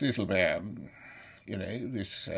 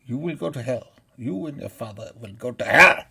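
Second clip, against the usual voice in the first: loud curse building to a shout; real furious condemnation; angry damnation; 10 dB louder than usual. Real, not acted. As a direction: hurl a verdict of damnation, roaring the end. Damns the man and his father.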